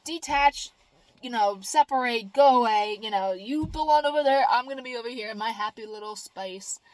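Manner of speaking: loud, sing-song brush-off of negative people; firm refusal. Retold or imitated. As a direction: shoo the negativity away cheerfully. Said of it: "And I'm like".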